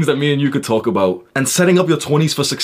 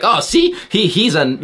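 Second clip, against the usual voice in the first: mock critic; 8 semitones higher, slower than usual. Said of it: "they're like".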